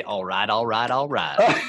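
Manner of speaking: a hint of McConaughey's catchphrase; McConaughey impression. Host dropping the McConaughey catchphrase for the guest, mild impression. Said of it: "sound and look like Matthew McConaughey".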